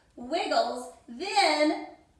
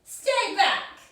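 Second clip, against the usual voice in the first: mild shout; 4 semitones higher than usual. Acted. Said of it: "shouted Bruce".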